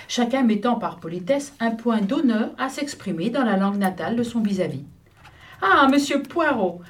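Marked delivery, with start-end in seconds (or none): 5.6-6.8 put-on Italian accent. A narrator's reading. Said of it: "dans son plus beau français".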